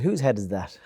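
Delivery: Christ's line voiced in a lightly put-on accent, "Whose head is that?" with a falling end; a slight put-on accent, kept close to his own voice. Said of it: "He didn't say it in that accent now".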